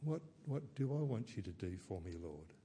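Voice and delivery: a soft, faltering reply fading out; stumbling, stuttering. Retold or imitated. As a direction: trip over the words in awe. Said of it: "I'd probably stumble and stutter".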